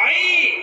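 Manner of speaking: আইন with a guttural Arabic ain. Shown as a demonstration. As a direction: squeeze আইন out of the throat. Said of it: "এই আইনকে উচ্চারণ করতে হলে".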